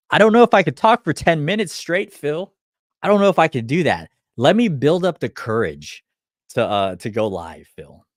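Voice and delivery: mock anxious client begging for time; nervous client. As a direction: play the scared client who can't face it. Client balking at going live.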